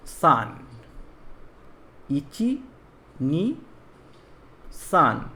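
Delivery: slow paced count in Japanese, pausing between strokes. Shown as a demonstration. Teacher counts strokes in Japanese while writing आ, slow. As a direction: count each stroke in Japanese as the pen moves. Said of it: "इसको देखिए किस तरह लिखा जाएगा".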